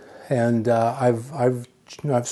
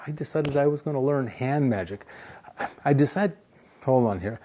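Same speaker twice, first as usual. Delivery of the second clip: through a face mask; 3 dB quieter than usual. Real, not acted. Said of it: "It's really hard to talk through this mask".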